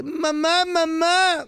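lightly voiced Arab kid calling mamá; Arab boy. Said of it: "Llegó el niño árabe".

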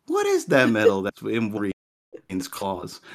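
slow, mock puzzlement; feigned ignorance. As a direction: act as if groping for the name. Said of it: "I was trying to hide".

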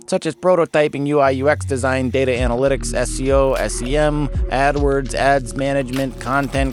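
put-on outrageous Great Lakes accent ad read; hammed-up Great Lakes accent, sponsor spot. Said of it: "I'm using this outrageous Great Lakes accent".

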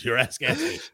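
slow radio jingle read. Pretend. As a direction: pitch the sponsor like a DJ. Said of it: "I can't help but do the radio voice".

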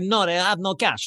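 slow, mock Russian accent. Sore loser refuses to pay, Russian accent. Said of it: "You can tell from the accent he's Russian".

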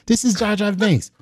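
the same words lifted into a high, light voice. Retold or imitated. Retelling the Jar Jar introduction in a high voice. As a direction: raise the pitch and keep it airy. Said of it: "high voice".

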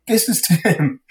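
high, loud, beaming introduction; excited introduction. Retold or imitated. Showing up at the family party with Tim, excited. Proudly presenting friend to family.

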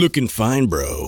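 creepy flirty voice. Retold or imitated. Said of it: "I read it in that voice".

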